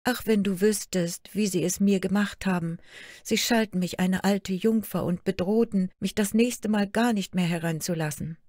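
a hurt daughter pouring out her sorrows; young princess Märchen. Acted. Daughter complains to her queen mother, lightly plaintive girl voice.

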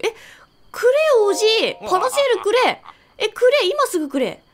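loud, high pestering yells; demanding shout. Real, not acted. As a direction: badger him loudly for the glider. Demanding the paraglider from old man.

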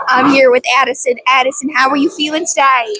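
playful interviewer voice; host a pretend TV interview; mock reporter. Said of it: "mock interviewer again".

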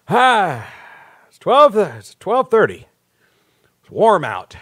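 a light send-up of the passenger who announces everything; lightly voiced, imitating a passenger who names every billboard; mock landscape narrator. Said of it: "people that have to narrate the entire landscape".

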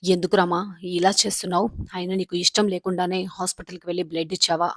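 loud, pressing demand of why she refuses; exasperated scolding. A narrator's reading. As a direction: raise your voice at a stubborn friend. Scolding a stubborn Ramalakshmi.

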